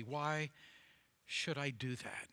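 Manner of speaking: unvoiced, hushed skeptical question; whispered doubt. A listener questioning the preacher, in a whisper. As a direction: mutter it like a doubter to himself.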